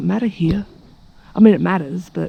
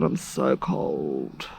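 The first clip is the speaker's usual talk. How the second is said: low muttered complaint; 10 dB quieter, much slower than usual. Real, not acted. Shivering in morning cold.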